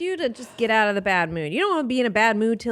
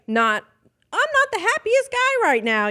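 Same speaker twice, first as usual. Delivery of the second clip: imitating mild displeasure; 12 semitones higher than usual. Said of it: "you're just like".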